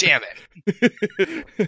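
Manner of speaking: loud laughing outburst of frustration; frustrated shout. Retold or imitated. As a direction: shout it while half laughing. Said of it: "And I'm like".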